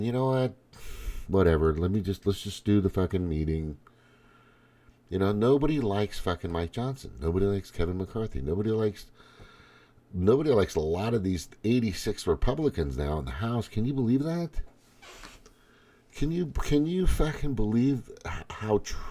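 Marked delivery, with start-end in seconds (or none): none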